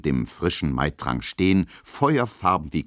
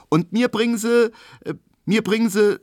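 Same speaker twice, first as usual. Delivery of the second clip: hesitant; 6 dB louder than usual. A narrator's reading. Emma hesitates ordering.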